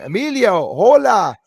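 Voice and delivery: loud, high, delighted call; happy greeting. Retold or imitated. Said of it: "so happy to say".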